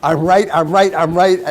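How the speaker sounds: loud, high insistent chant; hammed-up stubborn repeating; mock insistent shouting. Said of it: "suddenly you think".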